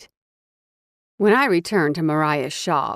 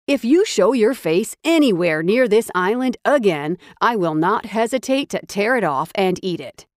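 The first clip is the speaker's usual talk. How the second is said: higher, louder menacing warning; threat; 4 semitones higher, 3 dB louder than usual. Acted. Hero threatens the thief off the island, menacing. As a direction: warn him off like a predator.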